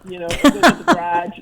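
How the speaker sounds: Massachusetts accent coming through; lightly demonstrated Massachusetts accent. Shown as a demonstration. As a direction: let a Brockton, Massachusetts accent slip out. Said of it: "They can hear it when I'm tired".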